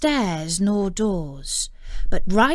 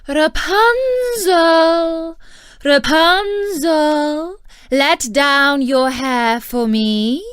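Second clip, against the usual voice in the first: slow, loud, much higher sing-song call; enchantress calling up; 7 semitones higher, 8 dB louder, slower than usual. A narrator's reading. Enchantress calling again to the tower, loud and drawn out. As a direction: stretch the names out to reach the window. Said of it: "he heard how she cried".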